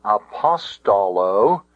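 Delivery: apostolo accented early, on the "pos"; apostolo, stressed on the third-last syllable; stress on second syllable. Shown as a demonstration. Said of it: "the word were accented".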